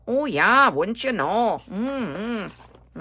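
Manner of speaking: lightly drawn-out Midwestern vowels in a folksy tone; Midwestern accent. Shown as a demonstration. Hamming up her Midwestern roots for viewers, a mild Midwestern accent. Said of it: "My Midwestern accent coming out there".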